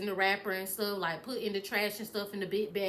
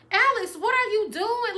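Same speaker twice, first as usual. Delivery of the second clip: high, louder retold demand; distressed confronting; 10 semitones higher, 6 dB louder than usual. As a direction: call him out in mock distress.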